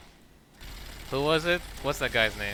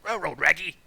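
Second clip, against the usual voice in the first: high, loud cartoon dog with R's up front; Scooby-Doo; 6 semitones higher, 7 dB louder than usual. Streamer hamming up their own railroad, cartoon dog impression. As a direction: yelp it like a talking dog. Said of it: "I talk like Scooby-Doo".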